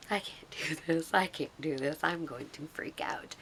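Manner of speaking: low, muted panicky self-talk; retold inner panic. Fan seeing the three actors, quietly panicking. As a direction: mutter it to yourself before your turn. Her panicked thought before photo.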